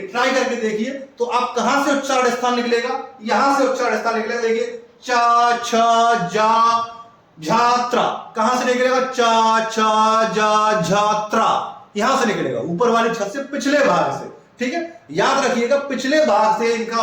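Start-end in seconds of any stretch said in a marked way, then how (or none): 5.0-11.5 चा छा जा झा sounded slowly from the palate; palatal demo. Shown as a demonstration. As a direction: say चा, छा, जा, झा from the roof of the mouth. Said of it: "इन शब्दों को आप बोल के देखिए".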